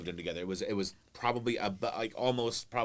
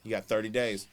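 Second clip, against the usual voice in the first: whispered joke; 3 semitones lower than usual. Acted. Joking aside.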